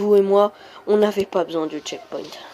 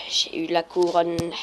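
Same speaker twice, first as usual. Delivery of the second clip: slow, subdued repeat; 3 semitones lower, 4 dB quieter than usual. Real, not acted. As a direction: draw it out without the punch. Repeats it slower, lower.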